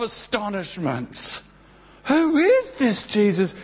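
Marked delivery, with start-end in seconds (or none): 2.0-3.5 astonished. Acted. Astonished crowd reaction.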